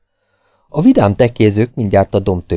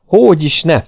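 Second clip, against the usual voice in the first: high, loud retort; indignant refusal; 9 semitones higher, 5 dB louder than usual. A narrator's reading. Barman refuses to open the bolt, high indignant retort. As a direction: refuse flatly out of alarm.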